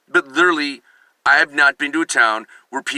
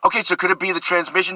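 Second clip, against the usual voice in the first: fast needy question; 4 semitones higher, faster than usual. Shown as a demonstration. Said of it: "And if you go".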